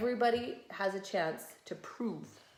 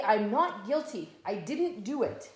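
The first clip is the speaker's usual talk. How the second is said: pretend denial; 4 dB louder than usual. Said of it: "And you would say".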